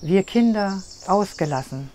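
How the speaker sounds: measured recital in short phrases with pauses; poem recitation. Shown as a demonstration. Poet reads her summer poem for the interviewer, recited in spaced phrases. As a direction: let each image fall and settle. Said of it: "wenn du mir mal was vorträgst".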